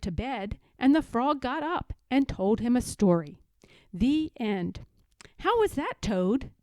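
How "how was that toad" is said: Frog's voice. Acted. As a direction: pop it up brightly as the frog. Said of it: "said Frog".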